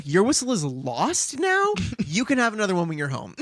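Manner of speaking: lightly voiced firm grown-up; mildly mock-stern adult tone; scolding adult. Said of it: "Her tone, I think, comes across as adult".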